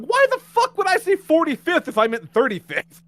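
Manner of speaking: high, strained, incredulous rant; exasperated outburst. Retold or imitated. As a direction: let the frustration boil over. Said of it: "And I'm like".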